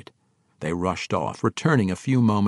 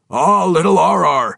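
higher, louder fond exclamation; affectionate greeting; 8 semitones higher, 8 dB louder than usual. A narrator's reading. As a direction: greet a little one fondly, pitched up. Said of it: "he added affectionately".

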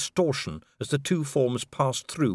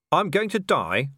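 high, alarmed question; fearful disbelief; panicked; 6 semitones higher, 3 dB louder than usual. Acted. Panicked man above waterfall.

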